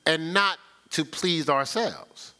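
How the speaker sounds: slow, deliberate verse; scripture reading. Real, not acted. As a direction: lay each word down slowly. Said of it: "It says".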